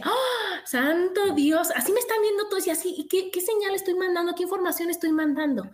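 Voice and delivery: high, startled cry of dismay, then rushed; alarmed self-quote. Retold or imitated. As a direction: suddenly catch yourself and panic a little. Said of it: "Y yo decía". (sobresalto alarmado, agudo y luego atropellado)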